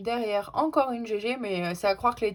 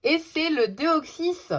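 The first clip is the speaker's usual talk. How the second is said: higher, louder, slow excited reveal of the card; thrilled reveal; 6 semitones higher, 5 dB louder, slower than usual. Real, not acted. Pulling the card she wanted, real excited reveal. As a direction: let the joy burst out as the card appears. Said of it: "Trop contente".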